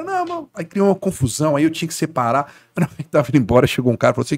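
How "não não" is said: very high, soft mock denial; disbelieving fan. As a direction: wave it off in a squeaky fan voice. Fan refuses to believe.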